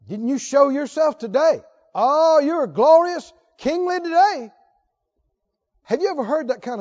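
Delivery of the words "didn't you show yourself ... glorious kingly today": wife sneering at her husband, sarcastic; bitter sarcasm. Retold or imitated. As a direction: drag out glorious with scorn. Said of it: "she's got this sarcasm".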